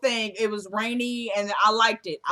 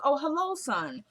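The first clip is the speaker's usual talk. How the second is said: mother's greeting; 5 semitones higher than usual. Retold or imitated. Mother greets son in retelling.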